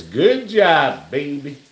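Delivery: high-pitched playful quote of Mark; squeaky praise, imitating him; quoting husband. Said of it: "Mark says".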